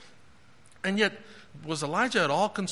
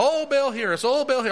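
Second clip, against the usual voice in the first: raised-pitch imitation of pleading prophets; lightly hammed-up calling on a god; mock crying out; 3 semitones higher than usual. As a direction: mimic a desperate chant to an idol. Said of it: "crying out to Baal".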